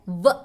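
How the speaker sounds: brief voiced व with a buzz at the start; V sound. Shown as a demonstration. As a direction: press upper teeth to lip for व. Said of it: "ऊपर वाले दांत को नीचे वाले होंठ में".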